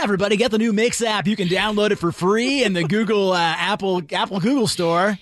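quick, upbeat radio ad read; radio announcer voice. Pretend. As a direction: sell it like an on-air promo. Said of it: "your best radio announcer voice".

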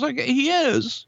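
high, slow pondering impression; Vince's voice. Vince mulls it over, relents.

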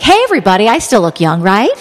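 aging news anchor. Retold or imitated. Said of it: "I'm like the aging news anchor".

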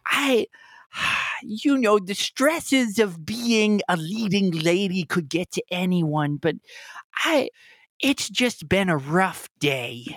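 high, slow, weepy leading lady; high tearful diva voice; sobbing actress voice. Acted. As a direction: sniffle it out, high and fragile.

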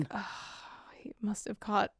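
hushed conspiratorial whisper. Pretend. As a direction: lean in and whisper the gossip. Mock whisper about Mulder.

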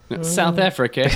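lightly attempted South African accent. Host practising a South African accent again, lightly accented. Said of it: "work on my South African accent".

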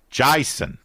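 mock Australian "Jason", first vowel widened to "eye"; put-on Australian accent for the name; joking Australian accent. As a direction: say "Jason" as "Jye-son", playing at Australian. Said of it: "I was joking with the Australian accent".

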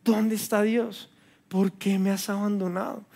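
soft, slow despairing question; the believer asks where God is. Retold or imitated. Soft slow despairing cry. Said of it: "la única pregunta es".

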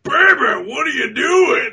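hammed-up husband shouting for his wife; mock husband calling out. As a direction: yell it from the doorway. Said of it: "he walks in like".

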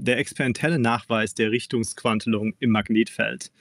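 "Der experimentelle Nachweis der Richtungsquantelung im Magnetfeld" in native German; German pronunciation. Shown as a demonstration. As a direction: read the German title in native German. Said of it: "I wanna hear your mellifluous, uh, German accent".

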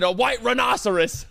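"white" with a breathy hw; mock pronunciation. Shown as a demonstration. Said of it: "you left out the H".

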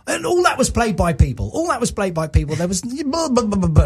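lightly imitating a grumpy star, brushing it off; mock mardy, bored and dismissive; half-hearted impression of a sulky musician. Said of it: "really mardy".

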